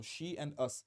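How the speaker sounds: "she and us" with the two pronouns kept distinct; split into two pronouns. Shown as a demonstration. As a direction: separate "she" from "us" as a memory aid. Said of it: "ये दो प्रोनाउंस के तौर पे".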